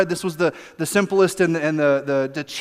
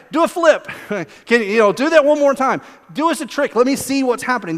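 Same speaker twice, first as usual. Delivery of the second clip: eager crowd demanding tricks; 5 semitones higher than usual. Retold or imitated.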